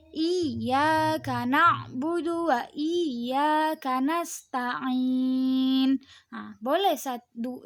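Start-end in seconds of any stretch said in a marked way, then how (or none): 0.1-6.0 slow recitation, NASTA'IN stretched at the end; contoh bacaan mad. Shown as a demonstration. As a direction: recite slowly, holding the last vowel of "nasta'in". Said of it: "Cara membacanya gimana nih?". (dilantunkan pelan, akhir NASTA'IN dipanjangkan)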